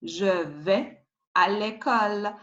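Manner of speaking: "vais" as veh, the S silent; silent final S. Shown as a demonstration. Teacher modelling a sentence, "vais" with silent S. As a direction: say "Je vais à l'école" in French, no S on "vais". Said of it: "you don't pronounce S".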